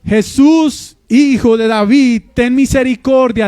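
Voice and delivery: clamor a media voz, algo más agudo; grito imitado. Retold or imitated. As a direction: imita sin desgañitarse a quien grita pidiendo ayuda. (súplica gritada, levemente actuada)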